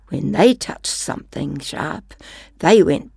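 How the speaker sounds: gentle storybook reading; reading to children. Acted. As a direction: read it like a bedtime story. Reads picture book aloud.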